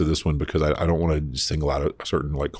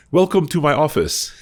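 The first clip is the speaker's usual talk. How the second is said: mock bathroom attendant; 12 semitones higher, 7 dB louder than usual. Attendant greeting, retold.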